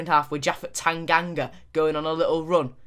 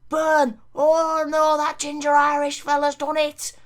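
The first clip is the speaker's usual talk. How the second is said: mock anguished shout; 9 semitones higher, 3 dB louder than usual. Goal conceded, fan-voice outburst.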